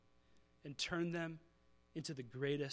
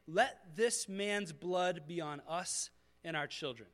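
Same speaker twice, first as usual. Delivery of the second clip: slow solemn curse; slower than usual. Retold or imitated. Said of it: "They, they yell this curse".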